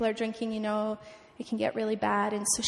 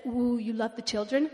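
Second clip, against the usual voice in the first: lightly voiced pastor, drawn "ooh", rising question; a hint of pastor impression; Pastor Shangwei. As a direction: imitate a funny pastor sounding impressed. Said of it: "he talks like this".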